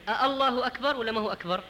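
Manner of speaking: questioning double hamza on الله. Shown as a demonstration. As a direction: separate "a-" before الله, asked as a question. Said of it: "فهو سؤال".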